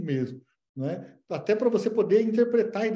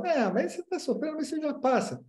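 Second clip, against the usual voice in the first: mock dismissive analyst; 8 semitones higher than usual. Analist dismissing patient mockingly.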